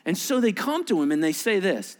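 ordinary talk

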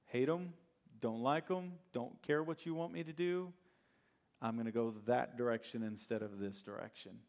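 brushing God off, stubborn and sulky; defiant Jonah. Retold or imitated. Preacher voicing Jonah refusing God, defiant.

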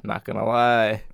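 laid-back, low and slow deadpan; easygoing, drawn-out admission; super chill. Retold or imitated. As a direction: imitate a comic being totally unbothered. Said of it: "he's just, like, super chill about it".

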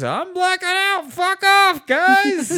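high, loud hammed-up yell; mock yell. Mocking the roommate with a high, loud yell. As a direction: bellow it in a high put-on voice. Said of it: "he just goes".

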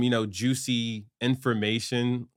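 usual speaking voice

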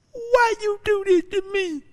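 high, crying complaint; whining cry. Retold or imitated. Pleading with God after a Friday lawsuit, high crying whine. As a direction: whimper it up at God like a hurt child. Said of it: "That's the way I was sounding".

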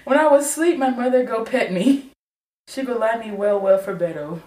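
lightly Nigerian pidgin reading; Nigerian accent. Retold or imitated. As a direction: read the lyric with a hint of Nigerian accent. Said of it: "I hear your African accent".

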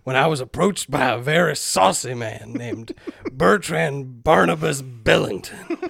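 put-on light Southern accent, all over the place; wandering Southern accent. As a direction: read a journal in unsteady, put-on Southern. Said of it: "this accent is going to go all over the place".

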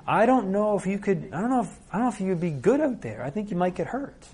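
gently undercut her with mock worry; fake concern. Parent to daughter, mild mock concern. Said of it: "covert form that's not so obvious".

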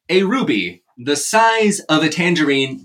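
slow, drawn-out English accent; Michael Caine accent. Shown as a demonstration. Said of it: "delivered in a Michael Caine accent".

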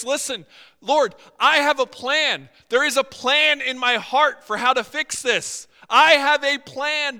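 loud, urgent declaration to God; a man pouring out his plan to God, loud and fervent; impassioned plea. Acted. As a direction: proclaim the plan with full force. Preacher voices Nehemiah's bold plan.

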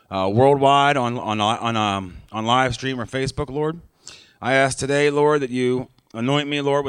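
earnest preacher's prayer, each plea starting with "Lord"; opening prayer. Acted. Opening prayer before the sermon.

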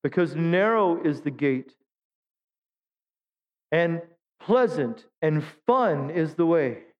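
slow, mock earnest misreading; deliberate misquote. Shown as a demonstration. Pastor misquoting the verse to test the congregation, slow and mock earnest. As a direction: read it wrong slowly as a tease. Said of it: "Is that what it says?".

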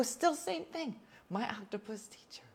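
whispered, eyes glued to the screen; hushed reply. Retold or imitated. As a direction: whisper so the film keeps playing. Answering daughter mid-film, hushed.

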